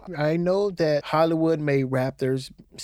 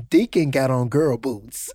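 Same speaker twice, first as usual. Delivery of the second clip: laughing; 4 semitones lower than usual. Retold or imitated. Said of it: "I said".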